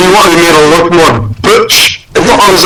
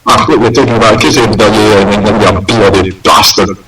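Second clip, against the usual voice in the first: put-on Scottish accent; 8 semitones lower than usual. Penguin insults owner, Scottish voice.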